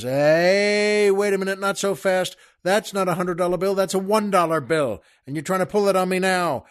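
acted protest, opening on a long, loud hey; mock outrage, quick after the first word; indignant objection. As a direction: cut in to stop a swindle. Lawyer objects to being cheated.

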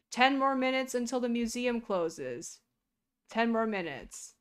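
loud, announcing over a speaker; intercom announcement. Acted. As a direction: call it out like the PA.

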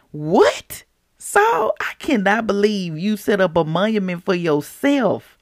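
mock-shocked reproach; mock disbelief. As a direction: act appalled at what he did. Mock disbelief at Saul's monument.

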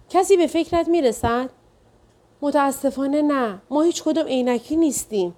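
anxious wife. Acted. Narrator voices the anxious wife.

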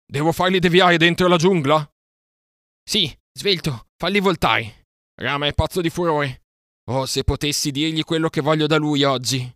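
high, loud shouts in the chase; shouting over the herd. Acted. Mowgli shouting to Akela while turning the bulls, high loud yelling. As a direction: yell over the thundering herd. Shouted exchange during stampede.

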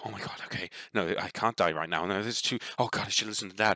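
hushed, anxious inner monologue; breathless panic. Acted. Game master voicing the adventurer's racing thoughts, hushed panic. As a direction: panic quietly to yourself, words tumbling. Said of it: "your breathing gets heavier".

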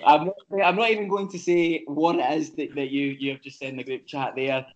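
words bubbling with laughter; laughing while talking. Real, not acted. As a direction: try to talk through the giggles. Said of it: "I'm trying not to laugh".

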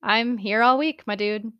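milk the punchline; smug joke. Acted. Shinso joking to Denki, slow smug delivery. Comic boast after joke.

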